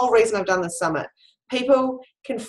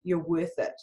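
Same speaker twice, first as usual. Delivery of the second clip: retold soft encouragement; 5 dB quieter than usual. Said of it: "And I was going".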